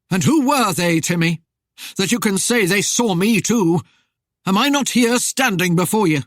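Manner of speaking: interrogating spectre. A narrator's reading. Rider challenges the man who saw him burn, menacing. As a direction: press the accusation like an avenging ghost. Death's voice in narrated story.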